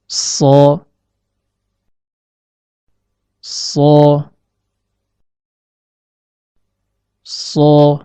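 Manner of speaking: "so" as heavy Arabic sad, long hiss into a rounded vowel; Arabic letter shad. Shown as a demonstration. Teacher demonstrates the letter shad for learners, "so" as a heavy, held Arabic s. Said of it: "Huruf shad".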